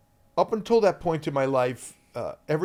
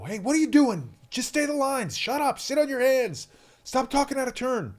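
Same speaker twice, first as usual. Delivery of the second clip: higher mock-stern scolding; imagined scolding; 11 semitones higher than usual. Director imagined scolding the kid, mock scolding. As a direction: play the imagined angry boss lightly. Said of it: "yell at me and say".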